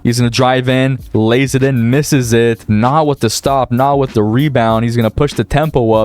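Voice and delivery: live game call, steady announcer pace; play-by-play commentary. Acted. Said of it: "Can I just say W commentary".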